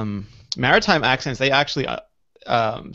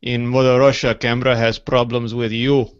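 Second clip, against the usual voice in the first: a hint of a Russian accent, slow and loud; Russian accent joke; 3 dB louder, slower than usual. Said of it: "Do you do any different accents".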